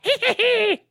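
high, growly little creature threat; menacing Muppet-like creature voice; Salacious Crumb. Acted. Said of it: "Salacious Crumb".

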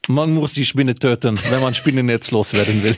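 lightly voiced film villain; a hint of a sinister Bond baddie. Shown as a demonstration. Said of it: "Wie der Bösewicht von James Bond".

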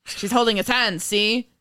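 lightly hammed nineteen thirties newsman with a tagged-on see; old-timey reporter voice. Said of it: "Your old-timey nineteen thirties reporter voice?".

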